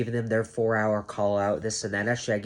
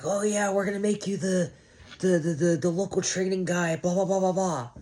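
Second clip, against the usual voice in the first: much higher, breezy fake promise voice; mock managers; 8 semitones higher than usual. Mocking his managers' empty offers, higher voice. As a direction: dangle the carrot in a silly voice.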